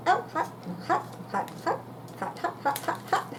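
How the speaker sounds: gasping hot, hot; huffing from hot food; hot food in mouth. Real, not acted. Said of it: "That's hot".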